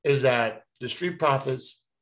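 slow, chewing gum while talking. Real, not acted. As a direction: gum in the mouth as he talks. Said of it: "sorry, I'm chewing gum".

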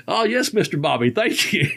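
cheery mock acceptance ending in a laugh; Sheldon the limo driver. Limo driver taking Bobby's candy bar, lightly imitated. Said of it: "one day that driver like".

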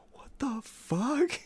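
slow, high whispered disbelief; a whispered what the fuck; embarrassed whisper. Retold or imitated. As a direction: hiss it under your breath, mortified. Embarrassed friend muttering to him.

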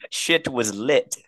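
slow mock British; British accent. Finishing the Monopoly story, drawn-out mock British. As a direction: stretch it out in put-on British. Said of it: "we have to talk in a British accent".

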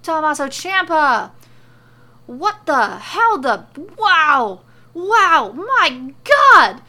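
high, very loud astonished outburst; theatrical roar of disbelief; bellowing. A narrator's reading. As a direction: bellow in overblown amazement. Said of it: "He bellows".

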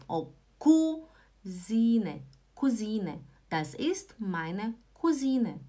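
"Cousine" as koo-ZEE-neh, long stressed middle; slow pronunciation model. Shown as a demonstration. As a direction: spell out "Das ist meine Cousine" word by word, slowly. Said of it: "Vamos tentar falar".

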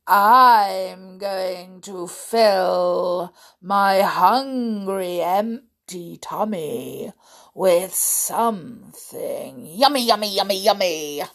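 slow, loud, relishing crocodile; greedy crocodile. Acted. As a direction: stretch the words out hungrily, then chant with relish. Crocodile figure in story.

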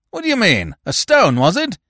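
a baronet pressing his servant for an answer; a hint of a demanding master; gruff questioning. A narrator's reading.

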